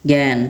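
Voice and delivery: "জ্ঞান" said as gæn; pronunciation example. Shown as a demonstration. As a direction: say "জ্ঞান" with an open æ vowel. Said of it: "আ এর মতো উচ্চারণ হয়".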